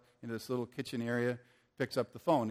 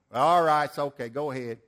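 imitating a Georgia accent with a loud start; easing off in a Georgia accent; 5 dB louder than usual. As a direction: put on a Southern Georgia accent. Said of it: "Georgia accent".

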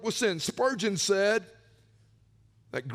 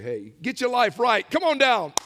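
louder, higher pastor's call building up; altar call; 3 semitones higher, 5 dB louder than usual. Retold or imitated. Old Baptist pastor calling sinners forward, rising call. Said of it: "for people to say".

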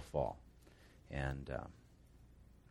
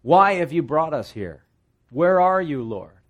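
much higher, louder whiny protest; complaining; 6 semitones higher, 7 dB louder than usual.

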